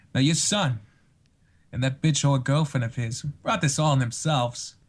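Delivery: lightly voiced menacing actor impression, halting pauses; Christopher Walken. Shown as a demonstration. Guest doing requested voices on the spot, Christopher Walken impression. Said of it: "we're gonna do, uh, Christopher Walken".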